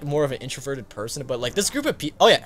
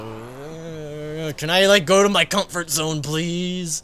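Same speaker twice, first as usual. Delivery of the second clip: mock pleading introvert; 3 semitones higher, 5 dB louder, much slower than usual.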